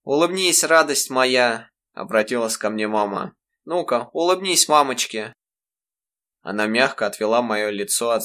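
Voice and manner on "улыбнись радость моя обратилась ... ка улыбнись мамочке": a mother comforting her son, tender; tender coaxing. Acted. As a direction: coax a smile from a child. Mother coaxes crying son.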